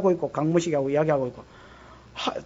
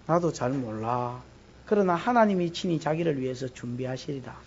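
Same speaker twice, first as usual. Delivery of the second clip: heavy-hearted father; 5 semitones lower, 8 dB quieter than usual. Acted. Abraham answering Isaac on the mountain, low burdened voice. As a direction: answer your son while hiding grief.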